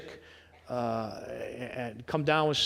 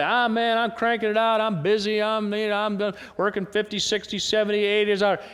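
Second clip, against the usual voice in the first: higher, mock-frazzled boasting; harried busy person; 5 semitones higher than usual. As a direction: rattle on as an overworked busy person. Acting a harried busy worker.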